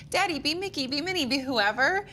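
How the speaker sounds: a hint of pleading kid; kids' request. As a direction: lightly voice a child begging dad to play. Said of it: "like, for the kids".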